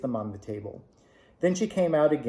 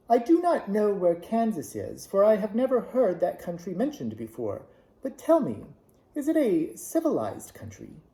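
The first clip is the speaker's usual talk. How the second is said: put-on a higher, gentle old woman, curious; lightly voiced kind old witch; 7 semitones higher than usual. A narrator's reading. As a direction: nudge the voice up into a kindly old witch. Witch of the North speaks.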